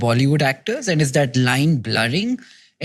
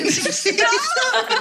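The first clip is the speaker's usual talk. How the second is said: high laughing burst. Real, not acted. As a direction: giggle breaking out. Laugh after retake.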